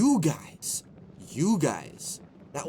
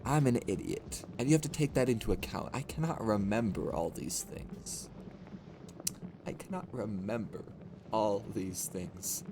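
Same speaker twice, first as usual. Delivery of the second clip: low, subdued admission of stupidity; soft, deflated and sinking lower; mock-dejected; 6 semitones lower, 8 dB quieter than usual. Streamer confessing failings to chat, mock-dejected.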